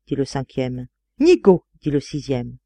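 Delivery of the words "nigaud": high, loud jeer; scornful insult. A narrator's reading. Sixth friend rebuking the narrator, high scornful jeer. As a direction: fling it out sharply.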